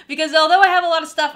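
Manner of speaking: a real laugh breaking into the line. Real, not acted. Laughing while admitting to hoarding.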